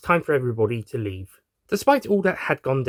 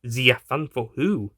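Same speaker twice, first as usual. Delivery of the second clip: put-on French accent; slower than usual. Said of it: "Pierre, who was French".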